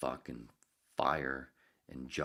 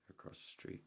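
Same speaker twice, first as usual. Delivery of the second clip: mock paranoid whisper; 16 dB quieter than usual. Mock paranoia about white coats.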